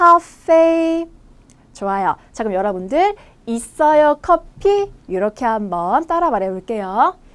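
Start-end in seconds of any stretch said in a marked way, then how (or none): 0.0-1.1 카페 held on a high, drawn-out pitch. Reading the word once more for learners to copy, high long tone on 카페. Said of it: "높고 길게 한번 읽어볼게요".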